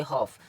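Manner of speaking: हॉफ ending on F, no L before it; silent L. Shown as a demonstration. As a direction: go from the vowel straight to F in हॉफ. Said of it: "आया एल silent".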